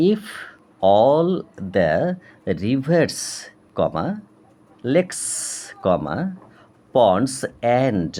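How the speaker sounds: very slow, word-by-word textbook reading with pauses; dictation reading. Acted. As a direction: read it out for dictation, voicing each punctuation mark.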